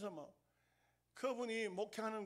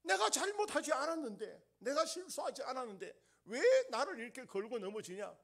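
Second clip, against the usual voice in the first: indignant protest; 4 semitones higher, 4 dB louder than usual. Acted. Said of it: "이러니까 계속 싸운 거죠".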